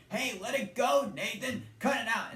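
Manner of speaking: squeaky chipmunk voice. Retold or imitated. Theodore yelling at Nathan over the mop, high and squeaky. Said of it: "grabs the handle of the mop and says".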